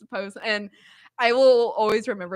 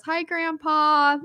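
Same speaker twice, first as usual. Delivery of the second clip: high, slow sing-song hi; sweet child voice; 6 semitones higher, much slower than usual. Retold or imitated. Niece greeting her grandpa, slow and high like a sweet child. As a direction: drag it out like a sweet little girl.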